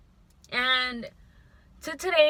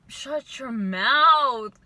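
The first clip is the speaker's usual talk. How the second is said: exasperated; 5 dB louder, much slower than usual. Real, not acted. Scoffing at ex's promises.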